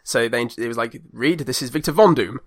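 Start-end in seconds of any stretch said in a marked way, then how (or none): 1.1-2.4 straight-faced, weighty introduction; understated solemn introduction; serious inflection. Retold or imitated. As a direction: introduce him in all seriousness, name falling at the end. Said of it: "a, s-, a serious inflection".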